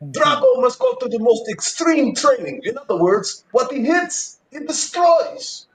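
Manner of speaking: high-pitched, stretched-out villain's spokesperson; film character impression. Joining the Russian joke with a high-voiced film impression. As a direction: draw out the last words with mock menace.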